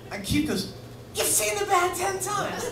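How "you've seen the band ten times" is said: high, far-off astonished question; amazed. Retold or imitated. A rock guitarist turning from a supermodel, amazed.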